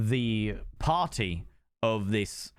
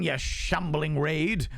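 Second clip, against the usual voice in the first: slow, drawn-out higher pitch; playful high greeting; 4 semitones higher, much slower than usual. Pretend. Streamer welcoming raiders, playful high greeting. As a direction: stretch out RAID high and welcoming. Greets raid, repeats it lower.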